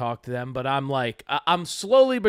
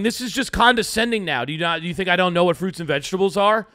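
quick, slightly raised mock irritation; mildly annoyed; 3 semitones higher, 3 dB louder, faster than usual. Retelling his complaint to the juice bar server, mildly annoyed. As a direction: retell the complaint a bit heated and fast. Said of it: "are you saying this in the tone".

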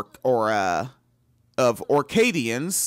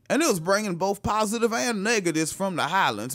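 mock Scottish accent. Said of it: "that is how it is done".

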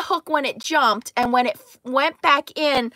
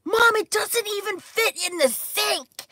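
higher voice for the daughter; lightly voiced awed girl; amazed daughter; 9 semitones higher than usual. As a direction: voice Leah in wonder at the fish. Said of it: "she was like".

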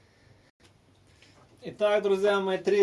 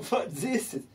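laughing as he repeats it. Real, not acted. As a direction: chuckle through the words. (со смехом)

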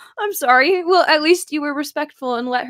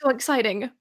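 ordinary talk, nothing marked

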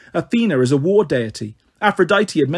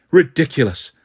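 mock yell; 2 semitones lower than usual. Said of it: "the pater yelled".

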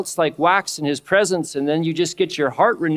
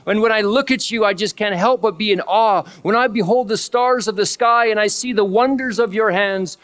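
raised, awestruck voice of worship; adoring prayer; 5 semitones higher than usual. Acted. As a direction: lift it up in awe of God. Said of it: "There's adoration where it's just like".

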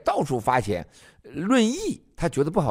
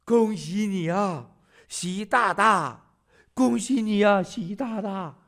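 higher, slow fawning foreigner voice; mock American; 6 semitones higher, slower than usual. Mocking Americans who fawn over Xi, higher put-on voice. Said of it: "美国人一看".

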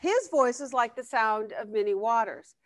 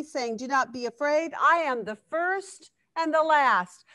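slightly raised, measured Bible reading; scripture reading; 2 semitones higher than usual. Acted. Bible study leader reading Revelation to the group, measured. Reads scripture passage aloud.

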